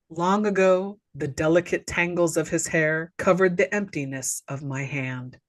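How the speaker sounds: low, solemn imitation of a poetess; mock-serious poem recital. Woman recites her poem to Joe, mock-serious. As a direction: recite it gravely, sinking away on the last word. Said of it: "she's looking all serious".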